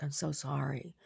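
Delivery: imitated quiet aside. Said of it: "like, leans into me".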